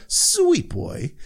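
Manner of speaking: a very high, sing-song crooning call; Jaqen's call. Retold or imitated. Jaqen calling to Arya from the cart, a high crooning voice. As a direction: coax the boy sweetly, up high.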